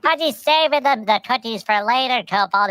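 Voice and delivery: high eager dog voice; a hammed-up puppy begging; Pudgy. Pudgy begging for Thin Mints, high and eager. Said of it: "and Pudgy's like".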